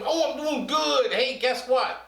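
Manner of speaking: high squeaky banana puppet; Mister Bananas squeaks back to the teacher. Acted. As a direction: play a chirpy fruit puppet.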